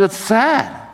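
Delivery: Paul scolding. Retold or imitated. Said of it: "He goes".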